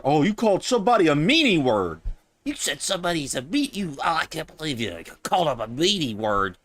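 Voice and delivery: high, mocking whine of an offended critic; mocking whiny voice. Mocking the critics who complain about insults in a whiny, high voice. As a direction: play the hurt critic, lightly mocking. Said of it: "getting emotional".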